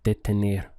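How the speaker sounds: detener with crisp Spanish T and tapped R; Spanish pronunciation. Shown as a demonstration. Teacher showing learners how detener sounds. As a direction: model detener clearly. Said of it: "So the sound is".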